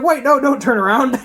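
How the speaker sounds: high, loud flustered panic; panicked yelp. Retold or imitated. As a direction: blurt it out in a panic. Character panics, caught peeking.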